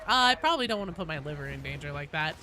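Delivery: quick, lightly voiced old lady; a hint of a fussy granny. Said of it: "Doing the old lady voice".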